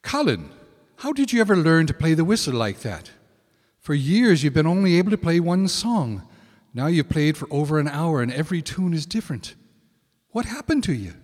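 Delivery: excited. Acted. Friend questions Colin excitedly.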